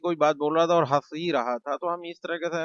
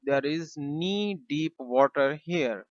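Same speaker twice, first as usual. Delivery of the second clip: slow model sentence; much slower than usual. Shown as a demonstration. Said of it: "हम कहेंगे".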